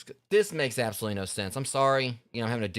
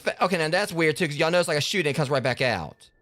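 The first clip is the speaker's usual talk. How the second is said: surprised; 6 semitones higher, 5 dB louder than usual. Real, not acted. Surprised at weird game glitch.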